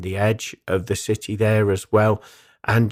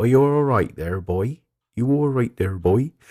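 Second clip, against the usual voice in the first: sounding Norfolk. Retelling what spirit men said on a cobbled street: imitating a Norfolk accent. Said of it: "voices in the local Norfolk accent".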